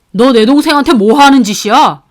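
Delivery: loud confrontation; angry brother. Acted. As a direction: stand up for his sister. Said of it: "화가 머리끝까지 났죠". (동생을 감싸는 오빠의 호통)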